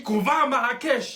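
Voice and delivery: loud, bratty shout at mum; a spoilt kid stamping his foot. Acted. Kid yelling at his mother about the trip, bratty shout.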